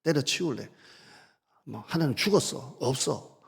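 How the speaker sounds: hammed-up quitting in anger; a lightly acted outburst of giving up on God; mock defiance. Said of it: "이 말투가".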